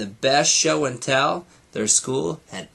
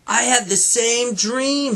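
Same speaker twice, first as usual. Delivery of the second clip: excited shout; 10 semitones higher than usual. A narrator's reading. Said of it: "shouted Morty".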